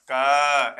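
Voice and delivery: क with its "a" vowel sounded and held; easy, open "ka" for क; vowel added to क. Shown as a demonstration. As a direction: say क as a full, voiced "ka". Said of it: "ऐसा आप पढ़ सकते हैं".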